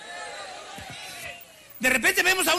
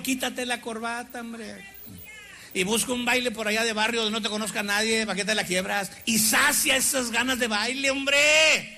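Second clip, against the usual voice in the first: low, coaxing devil whisper-like voice; the devil tempting a young man, low and sly; 3 semitones lower than usual. Retold or imitated.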